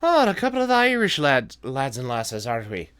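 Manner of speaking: light mock Irish accent; a hint of Irish lilt. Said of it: "if I'm doing an Irish accent".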